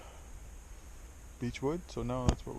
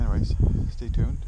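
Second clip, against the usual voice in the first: shouting over wind; 9 dB louder than usual. Real, not acted. Speaking over wind by river.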